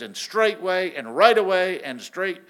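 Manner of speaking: imitating excited Mark. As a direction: mimic a young man bursting to tell it. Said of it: "he's all excited".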